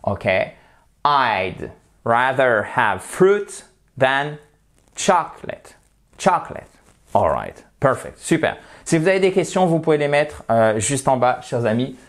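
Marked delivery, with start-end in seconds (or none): 1.0-6.7 slow demo sentence. Shown as a demonstration. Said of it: "À vous".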